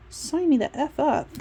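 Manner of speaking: high, loud and keen; eager reaction to the promise of no night shifts. Retold or imitated. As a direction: jump at the offer. Eager reaction to the job perks.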